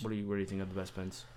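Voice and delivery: quick whispered question. Acted. Asking his friend about pens in a hushed whisper. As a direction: lean in and whisper it fast.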